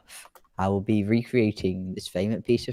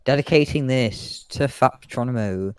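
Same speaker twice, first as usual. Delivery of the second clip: a hint of a show commentator; air show announcer. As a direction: introduce the plane to the crowd.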